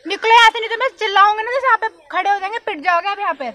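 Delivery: angry warning to leave; fed-up, indignant telling-off; flaring up. Real, not acted. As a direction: threaten to raise the alarm. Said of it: "वो तो भड़क रही है".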